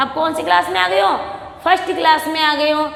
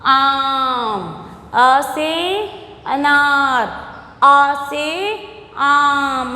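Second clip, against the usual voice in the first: slow, drawn-out letter-and-word drill; alphabet recitation; much slower than usual. Shown as a demonstration. Teacher drilling young pupils in Hindi vowels, slow recitation. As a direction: stretch each vowel for a class to repeat.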